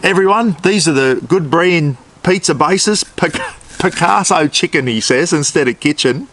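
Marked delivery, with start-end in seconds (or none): 0.0-4.9 higher-pitched presenter voice, lightly imitated; Phil the Maniac. Retelling a YouTuber's slip to viewers, lightly imitated higher voice. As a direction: mimic a video host announcing to viewers. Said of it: "he goes".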